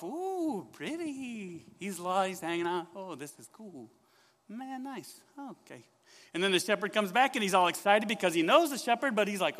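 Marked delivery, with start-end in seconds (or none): 0.0-5.8 wandering sheep. Acted. Billy wanders off, musing softly.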